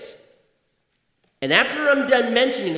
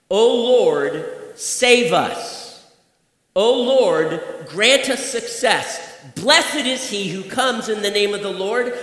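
scripture reading; 2 semitones higher than usual. Acted. Preacher to congregation, reading the psalm with fervor.

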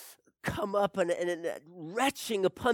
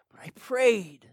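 firm; 4 semitones higher, 6 dB louder than usual. Acted.

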